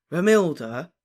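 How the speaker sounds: loud, drawn-out rising question; awestruck. A narrator's reading. Ron hears beloved's name, awestruck. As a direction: seize on the name, thrilled. Lovesick friend catches the name.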